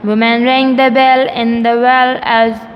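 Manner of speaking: measured classroom verse reading on a level pitch; poem read aloud. Shown as a demonstration. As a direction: read each line deliberately, pausing between phrases. Let's read three lines again.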